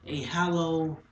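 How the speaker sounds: tense stage narration, quickening then halting; urgent recollection breaking into pauses; dramatic monologue. Acted. Monologue, the accident.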